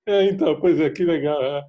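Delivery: playing along without understanding; vague polite filler reply. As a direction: fake an eager agreeing answer. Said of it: "vai falar assim".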